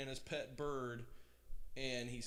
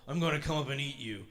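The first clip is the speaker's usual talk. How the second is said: loud, fast troll threat; a troll promising to eat the goat; menacing troll; 6 dB louder, faster than usual. A narrator's reading. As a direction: growl the threat like a hungry troll. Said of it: "said the troll".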